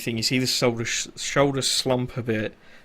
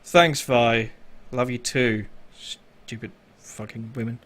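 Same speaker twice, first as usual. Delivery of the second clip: sighing resignation; slower than usual. Acted. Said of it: "just sighs and goes".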